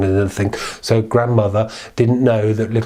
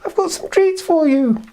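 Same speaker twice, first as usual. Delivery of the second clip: the wolf faking sweetness; soft disguised wolf. Acted. The wolf at the door disguises its voice, very high and soft. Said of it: "its voice was all sort of white and fluffy".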